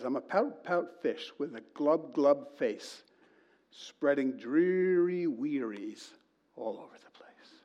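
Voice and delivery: slow, dreary, sinking recital of the grumpy fish; gloomy pout fish. Retold or imitated. Pastor reciting the children's book, a glum sulky fish. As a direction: drag it out like a sulking fish, fading to a breath at the end.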